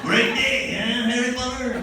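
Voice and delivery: put-on high, loud Hispanic-accented greeting. Tattooed neighbor hailing the comedian, Hispanic accent. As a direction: holler small talk in a Hispanic accent. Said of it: "I apologize for this accent".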